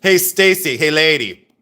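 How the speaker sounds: calling out. Real, not acted. Calling out again.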